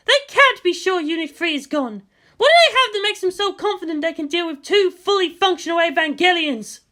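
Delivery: lightly voiced determined commander, urgent; a grim officer pushing through pain; Misato, tense. Narrator voicing the wounded commander to the leaders, urgent.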